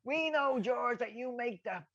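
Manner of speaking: high, slow, mock-grand compliment; butter him up, dragging it out; high cheeky pitch to George; Gibbo's cheeky call. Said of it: "S0 quotes Gibbo".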